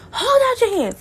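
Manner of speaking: put-on high, loud Caribbean-accented command; Caribbean mother accent. Mother holding incense holder, loud Caribbean-accented order. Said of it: "now a Caribbean mother".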